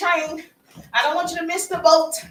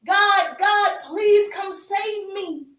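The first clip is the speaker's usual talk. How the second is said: desperate plea; 6 semitones higher, much slower than usual. Acted. Man on his second story begging God, desperate. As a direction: plead upward, drawing out the last words. Flood victim calls out to God.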